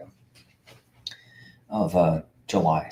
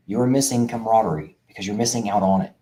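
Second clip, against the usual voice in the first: a little more measured, spelling it out; slowly, deliberately; 2 semitones higher than usual. Shown as a demonstration. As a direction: repeat it carefully so CAMARADERIE lands. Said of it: "I'm gonna say that again slowly".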